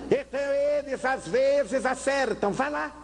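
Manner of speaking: high condescending advice; mocking psychiatrist. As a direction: brush it off as the doctor.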